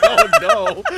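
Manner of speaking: retold panicked cry. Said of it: "I was like".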